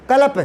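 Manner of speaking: कल्प as kə-lə-p, three equal beats; equal stress. Shown as a demonstration. Teacher to class, showing कल्प with equal stress on all three. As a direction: give each sound in कल्प equal weight. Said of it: "तीनों पर बराबर जोर पड़ेगा".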